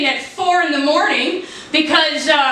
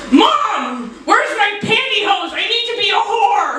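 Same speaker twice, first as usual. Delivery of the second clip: yelling across the room; 2 semitones higher than usual. Retold or imitated. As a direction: shout it across the house. Calling to mom from the closet.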